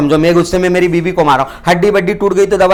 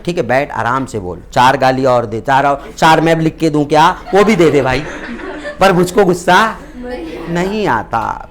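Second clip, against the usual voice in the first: soft, lowered, unbothered calm; calm reply; 4 semitones lower, 3 dB quieter than usual. Retold or imitated. Teacher voicing a calm reply to someone cursing him, soft and unbothered. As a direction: soothe the angry man, staying cool. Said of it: "तो बोल रहा".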